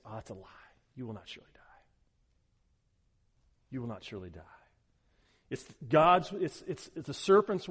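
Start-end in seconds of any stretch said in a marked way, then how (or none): 0.0-4.4 much softer, low sly reassurance; sly whisper-like lie. Retold or imitated. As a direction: slip the lie in softly like a tempter. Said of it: "he comes in and says".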